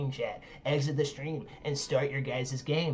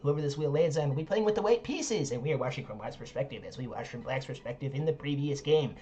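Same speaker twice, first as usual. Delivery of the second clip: announcer read. Acted. Host welcoming both players to the wheel spin, announcer voice. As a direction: announce it like a game-show host.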